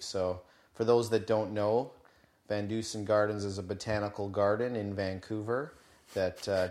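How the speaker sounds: flat, lifeless robot monotone. Real, not acted. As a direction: drone it out like a robot. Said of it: "sounding like a robot".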